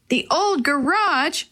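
high, slow, half-shouted question; shouting. Acted. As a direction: call it out in disbelief, drawn out. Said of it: "Willie shouted".

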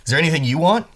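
high, loud sly question; eager offer. Acted. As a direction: pitch it up like a salesman. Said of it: "Doggy Daddy's asking you".

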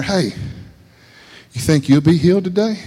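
easygoing, unceremonious "hey"; casual everyday asking. Acted. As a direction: ask it like ordinary street talk. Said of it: "That's different, don't it?".

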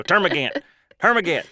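"termagant" said as TUR-muh-gant, front-stressed; friend's pronunciation. Shown as a demonstration. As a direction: punch the first syllable of "termagant". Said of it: "his pronunciation is gospel for me now".

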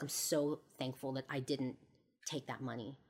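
soft, understated retelling of someone close to tears; retold near tears. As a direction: let the volume sink, lightly choked with gratitude. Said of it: "She's almost crying at this point".

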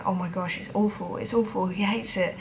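soft, worried inner voice; muttered panic under the breath; anxious inner voice. Retold or imitated. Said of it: "And in my head, I'm going".

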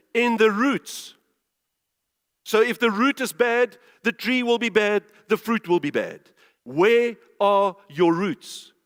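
forceful, deliberate scripture preaching; loud, emphatic pulpit delivery. Real, not acted. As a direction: drive each phrase home to the congregation.

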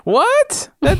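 high-pitched, incredulous outburst; mock indignant. Real, not acted. Host told his French sounds German, mock indignant. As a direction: squeak it in disbelief.

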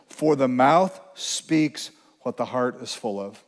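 slow, solemn verse; slow scripture reading. Shown as a demonstration. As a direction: let the verse land slowly. Quoting scripture slowly.

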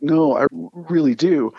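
slow, mildly insistent retort; retold insistence, drawn out. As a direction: stretch it out, politely refusing to back down. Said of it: "because I was so insistent".

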